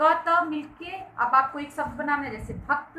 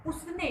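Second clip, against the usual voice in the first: उसने drawn out by itself with emphasis; stress on उसने; 4 semitones higher, 7 dB quieter, slower than usual. Shown as a demonstration. Teacher isolating the stressed word, stress on उसने. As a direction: lean firmly on उसने. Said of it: "उसने पर बल दिया गया".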